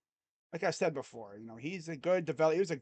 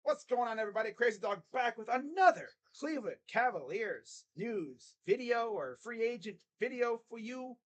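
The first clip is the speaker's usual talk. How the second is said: a touch higher, upbeat channel greeting; YouTube intro; 5 semitones higher than usual. Shown as a demonstration. Streamer previewing his Cavs news video intro, upbeat. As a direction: lightly perform your video opener. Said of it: "you're gonna be hearing a lot of".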